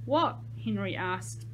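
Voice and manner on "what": high, loud, eager little question; bright as a penny. A narrator's reading. Henry eagerly asks Jake for the answer, bright as a penny. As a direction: pipe up brightly with rising pitch. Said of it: "bright as a penny".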